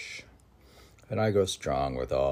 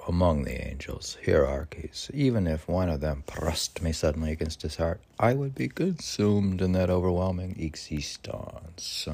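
declaimed poetry. Acted. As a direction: cry it out to the heavens. Continues second recitation.

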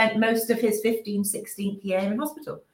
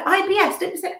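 high-pitched, retold outrage; indignant retort; 11 semitones higher, faster than usual. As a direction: throw the diagnosis back in disbelief. Retelling her outrage at the headmaster.

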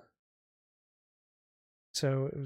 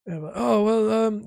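higher, louder put-on register; hesitant character voice, pitched up; ex-husband Harold; 7 semitones higher, 5 dB louder than usual. Shown as a demonstration. Gamer tries a changed voice for his character, higher register. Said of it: "quietly change his voice".

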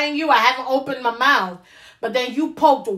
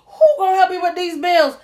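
laughing disbelief; 5 semitones higher, 3 dB louder than usual. Real, not acted. Mocking a broke lavish man.

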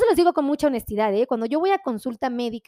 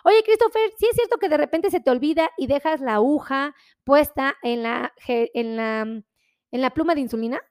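teasing question. Retold or imitated. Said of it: "Póngale".

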